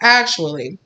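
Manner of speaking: a hint of a smug know-it-all, fast; lightly voiced lecturing nerd. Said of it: "they put their glasses down on their nose and they're like".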